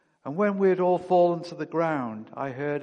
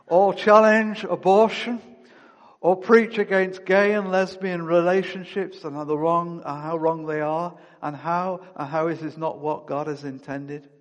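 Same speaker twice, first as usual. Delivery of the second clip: preaching hard; 3 semitones higher, 7 dB louder than usual. Real, not acted. Preacher condemning the culture to his congregation, fervent louder preaching. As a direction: hammer it home from the pulpit.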